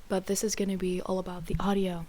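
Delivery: hushed, whispery podcast voice; soft breathy podcast voice; weird soft voice. Real, not acted. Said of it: "That's why I'm talking in this weird voice".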